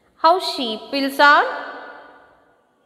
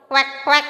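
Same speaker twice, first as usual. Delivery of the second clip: two short mimicked quacks; duck quack imitation. Shown as a demonstration. Teacher shows children how a duck will sound, imitated quacking. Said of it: "duck will sound?".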